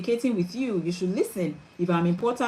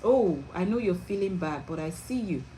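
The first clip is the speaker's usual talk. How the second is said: tender reassurance; 5 dB quieter than usual. Shown as a demonstration. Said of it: "you're telling them".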